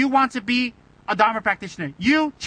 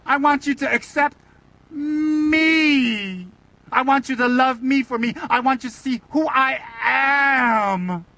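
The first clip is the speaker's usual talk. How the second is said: mock heartfelt plea; 3 semitones higher, slower than usual. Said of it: "don't you hate that when you hear that on Oprah".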